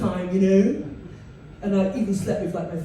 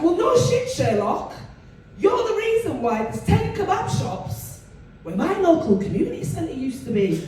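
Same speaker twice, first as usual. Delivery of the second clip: mock angry rant; 7 semitones higher than usual. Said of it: "I'll be in the club like".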